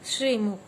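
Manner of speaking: श्रीमुख said firmly with a clear श्री; model pronunciation. Shown as a demonstration. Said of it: "क्या है next?".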